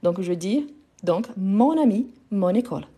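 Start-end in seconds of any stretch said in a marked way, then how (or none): 1.4-2.9 "mon ami, mon école" as mon-nami, mon-nécole; liaison. Shown as a demonstration. Teacher giving the correct forms, "mon ami, mon école" linked. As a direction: carry each n into the next vowel. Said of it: "de la même façon".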